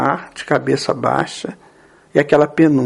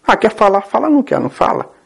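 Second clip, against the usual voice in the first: lightly mocked dismissive shrug; rebellious kid; 5 semitones higher, faster than usual. Rebellious kids give up on someone silent, dismissive. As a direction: toss it off high, dropping at the end. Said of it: "E meninos rebeldes".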